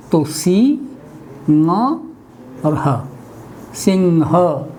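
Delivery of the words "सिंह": सिंह said as sing-ha with the ng sound; pronounced singh. Shown as a demonstration. Teacher showing students how to say सिंह. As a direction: say सिंह with a clear ng before ha. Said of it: "इसलिए हम इसको सिंह बोलते हैं".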